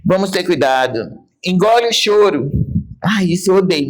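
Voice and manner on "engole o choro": imitating mother. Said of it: "Minha mãe falava pra mim".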